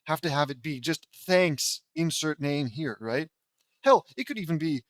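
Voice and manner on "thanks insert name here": bland. Shown as a demonstration. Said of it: "so blandly".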